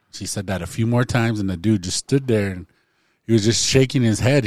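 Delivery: usual speaking voice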